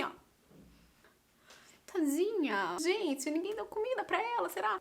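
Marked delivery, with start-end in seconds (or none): 1.9-4.8 mock pity. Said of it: "e todo mundo assim".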